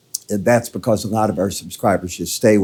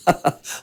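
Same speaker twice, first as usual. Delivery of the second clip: short laugh; 7 semitones higher than usual. Real, not acted. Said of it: "I'm laughing".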